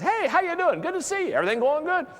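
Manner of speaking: high, loud, casual hello; easygoing everyday hello; normal friendly greeting. Shown as a demonstration. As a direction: greet them like an ordinary guy. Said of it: "when you're out here".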